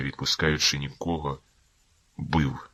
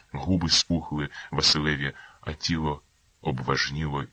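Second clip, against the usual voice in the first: ordinary delivery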